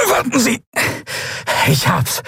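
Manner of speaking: high, strange reptile voice; lizard creature voice. Acted. Lizard officer voiced in story.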